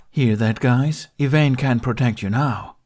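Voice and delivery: playful monster. A narrator's reading. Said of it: "gave a playful growl".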